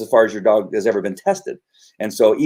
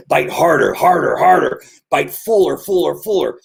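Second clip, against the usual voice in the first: higher-pitched egging-on chant; mock coaching, pitched up; urging on; 5 semitones higher than usual. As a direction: goad the dog on, punching each repeat. Mimics urging a dog to bite.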